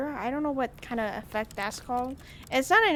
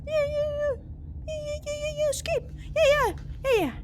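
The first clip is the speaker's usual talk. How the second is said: mock eager yes; 13 semitones higher than usual. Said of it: "I was like".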